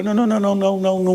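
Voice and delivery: não não não, agudo e um pouco mais alto; recusa apressada. Retold or imitated. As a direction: corte a oferta na hora, aflito. Pastor keeps refusing the house. (pastor recusando a casa do irmão, aflito)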